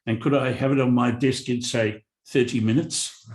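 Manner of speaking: light mock South African accent, quoting a demanding boss; hammed-up South African voice rattling off tasks; fake South African accent. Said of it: "that's my fake South African accent".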